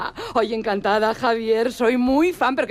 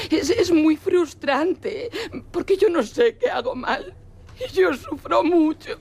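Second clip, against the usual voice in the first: tearful, pitched-up lament; fake crying; 5 semitones higher than usual. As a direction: put on tears for the camera. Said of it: "¿Sigo llorando un rato más?". (llanto fingido)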